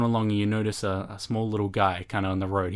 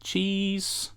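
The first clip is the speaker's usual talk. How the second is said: Vinny; 8 semitones higher, 3 dB louder, slower than usual. Acted. Vinny voiced ordering pizza.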